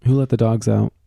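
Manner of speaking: loud teasing quote of the song; mock song shout. Host teasing the co-host for being a dog, loud mock chant. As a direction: bellow it to tease her. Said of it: "you're being kind of a dog".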